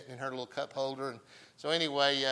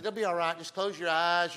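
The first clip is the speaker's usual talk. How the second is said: higher-pitched grandfatherly comforting; retold reassurance; 4 semitones higher, 3 dB louder than usual. Grandfather to scared granddaughter in car wash, retold reassurance. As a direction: imitate soothing a frightened small child.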